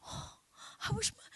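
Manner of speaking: high, soft imitated weeping; mock crying. Preacher retells women crying over her story, mock crying. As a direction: whimper it like envious wives in tears. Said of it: "They were crying because they're like".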